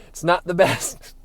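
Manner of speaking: drawn out slowly, leaning on not; slow, weighted repeat. Shown as a demonstration. Repeating his verdict on the foods, slowly and deliberately. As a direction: say it again slowly, letting "not" sink in.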